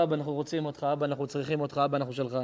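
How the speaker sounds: put-on hushed, tender child's plea; soft plea. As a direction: whisper it like a child begging father. Children plead to God as father.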